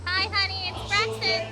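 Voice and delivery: put-on soft, high coaching line for a child; feed the words quietly; prompting softly. Shown as a demonstration. Parent prompting a small child, soft coaching.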